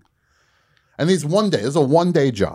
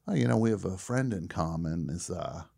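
tentative small talk; 4 semitones lower, 8 dB quieter than usual. Retold or imitated. Retelling nervous small talk with the star.

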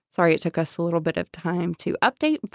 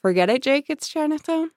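movie quote; 8 semitones higher than usual. Retold or imitated. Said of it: "quote the end of Chinatown".

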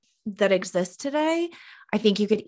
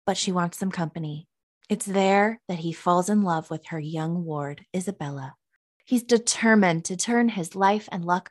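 announcer voice. Pretend. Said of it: "my announcer voice on right now".

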